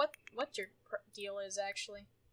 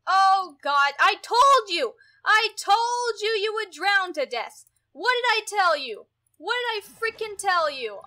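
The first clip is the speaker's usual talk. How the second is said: high, loud exasperated scolding; furious yelling; 7 semitones higher, 12 dB louder than usual. Real, not acted. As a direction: yell at him for drowning. Scolding drowned sim.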